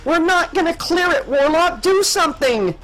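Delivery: very high, desperate cry; panicked shriek. A narrator's reading. Captain begging pilot to act before impact, high shriek. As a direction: shriek it, pitch way up. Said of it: "Danella shrieked".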